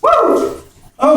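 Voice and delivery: high, drawn-out shout from the cold; cold shock yell. Real, not acted. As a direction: scream at the freezing water. Bucket poured.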